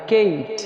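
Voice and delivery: "केट" with a gliding "ए-ई" vowel; long A vowel. Shown as a demonstration. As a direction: say "केट" like English Kate. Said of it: "तो हो जाएगा".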